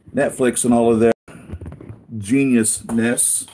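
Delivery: sarcastic, dragging out "geniusness". Real, not acted. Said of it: "I say that sarcastically".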